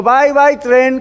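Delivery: imitating children saying bye-bye; childlike farewell. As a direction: wave off the train like a little child. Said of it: "como hacen los niños".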